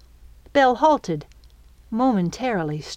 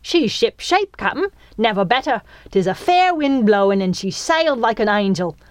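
higher-pitched chipper deckhand voice; cheery sailor; 4 semitones higher, 4 dB louder than usual. A narrator's reading. Little crewman reporting on the ship, chipper sailor voice. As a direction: report like an eager little pirate.

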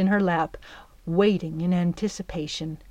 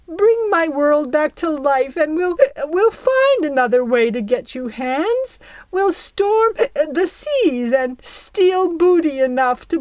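high, louder voice near tears; a touched old fairy welling up; tearful fairy; 8 semitones higher, 5 dB louder than usual. Acted. Belle promises Jack the world, tearfully.

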